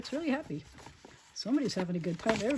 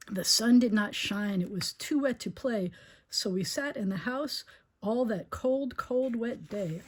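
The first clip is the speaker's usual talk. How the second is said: slow storybook read; reading to children; slower than usual. A narrator's reading. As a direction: draw out the gloomy day. Reads picture book aloud.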